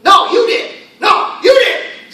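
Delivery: high, loud shouted retort; excited, angry shout. Shown as a demonstration. Teacher acts out arguing over who broke the window, angry shouting. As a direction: fire the blame back at a yell. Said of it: "I'm excited, I, maybe I'm angry".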